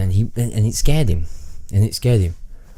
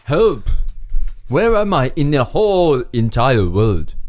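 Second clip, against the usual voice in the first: stranded man's message; 2 semitones higher than usual. Acted. Stranded man describes where he is, hammed-up accented plea. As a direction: call for help in a comic accent. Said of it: "read this and convey this message".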